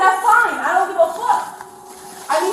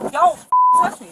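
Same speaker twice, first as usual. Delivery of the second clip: shrieking. Real, not acted. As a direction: scream it at the officer. Repeated demand not to touch.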